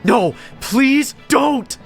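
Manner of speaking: high, drawn-out desperate scream; terrified high-pitched plea; full-lung scream. A narrator's reading. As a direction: scream to stop it, stretching each word. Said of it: "screamed at the top of my lungs".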